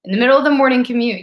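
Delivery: indignant rant, jumping high at the start; retold exasperation. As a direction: replay your annoyed disbelief. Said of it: "I just got so angry".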